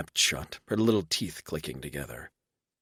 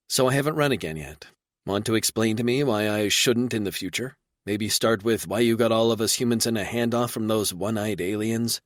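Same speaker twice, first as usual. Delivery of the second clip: higher and quick, pressing; woman demanding an explanation; light insistent female voice; lightly voiced woman; 4 semitones higher, 3 dB louder than usual. Reba pressing.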